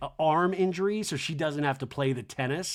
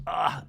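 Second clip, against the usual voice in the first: imitated groan; a short mock groan of reluctance; Kyle; 2 semitones lower than usual. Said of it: "Kyle groans".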